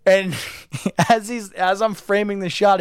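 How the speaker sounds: ordinary talk, nothing marked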